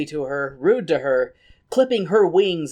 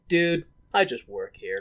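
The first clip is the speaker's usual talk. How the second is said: lower, understated bartender aside; deadpan bartender; 4 semitones lower, 4 dB quieter than usual. Retold or imitated. Bartender fending off drunk Raoul, low understated deadpan. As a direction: say it low, half-amused, lightly acted. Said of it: "bartender's face is like".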